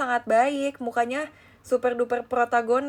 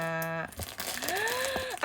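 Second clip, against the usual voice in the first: excited gasp; 10 semitones higher, 7 dB quieter than usual. Real, not acted. Excited gasp at rediscovered toy.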